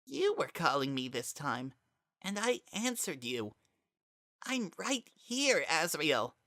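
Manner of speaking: high and very soft; gentle, near-whispered reassurance; lost boy speaking softly to his friend; hard to hear. Acted. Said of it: "hard to hear Kara's voice".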